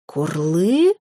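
mild roar sweeping steeply upward; dragon roar. A narrator's reading. Mother dragon rounding on her son, rising roar. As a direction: roar it as an outraged question, slowly rising. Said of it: "снова взревела драконица".

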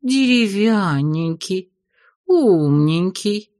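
slow, sweet cooing praise; pleased cooing. Acted. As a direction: coo it like a pleased witch. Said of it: "с довольной ведьмой".

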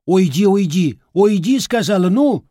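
angry granny yell. Acted. Grandmother yelling at the boy to go away, shrill and loud. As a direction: drive him away with each word.

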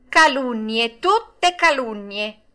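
high, loud, drawn-out protest; outraged high puppet exclamation; indignant. A narrator's reading. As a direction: protest against slander in a high voice. Puppet indignantly denies the charges.

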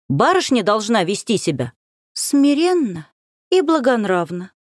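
lightly voiced prim good girl, sing-song; a hint of a mocking well-behaved schoolgirl; goody-goody girl tone. Varenka mocks her cousin in a prim good-girl tone. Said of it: "произнести это тоном пай-девочки".

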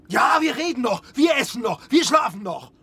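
bitter shout. Acted. Despair over their hopeless existence.

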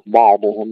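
بعضهم opened with a thick, emphatic b; the mistake: thicken the b of بعضهم forcefully; heavy ba. Shown as a demonstration. Teacher showing what not to say, heavy b in بعضهم. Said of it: "لا نفخم الباء".

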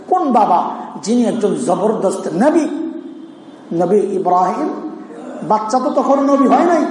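ordinary talk

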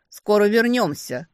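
loud parting call. A narrator's reading. Brother calling to his sister mid-flight, loud. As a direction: shout it back while flying off. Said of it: "крикнул сестре уже в полёте".

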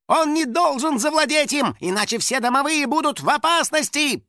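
high, urgent warning; alarmed yell. A narrator's reading. House spirit warning that all his kind are endangered, alarmed. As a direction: cry the danger out high. Caged Finik warns of danger.

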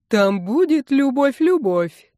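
high, slow, teasing sing-song; mock a lovesick girl in a high piping voice; high, drawn-out teasing falsetto; thin little voice. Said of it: "тоненьким голосом проговорил брат-обезьяна".

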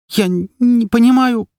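high, stammering squeak; a captive girl squeaks at her kidnapper; frightened squeak. A narrator's reading. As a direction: squeak it out, scared and halting. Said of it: "пропищала я".

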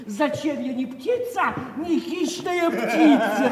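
a taunt aimed at Makar; sneering. Acted. Ringleader repeats the mocking verse.

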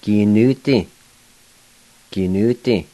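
Gi-nu-ti said as kinuti, a T slipped in before the D; Gi-nu-ti with the final I almost silent; model pronunciation. Shown as a demonstration. Teacher modelling Gi-nu-ti with a slipped-in T sound. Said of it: "And say it just like this".

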